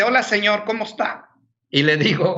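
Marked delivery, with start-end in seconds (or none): 0.0-1.3 put-on higher, bright child voice greeting; cheerful little girl. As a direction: imitate a happy little girl saying hello. (voz de niña alegre, más aguda)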